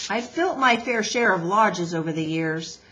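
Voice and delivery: lightly voiced seasoned builder; a hint of a gruff old hand; Mister Beaver.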